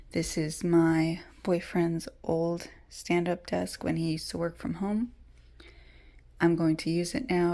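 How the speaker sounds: hushed whisper. Real, not acted. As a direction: whisper so nobody wakes. Whispers through the vlog.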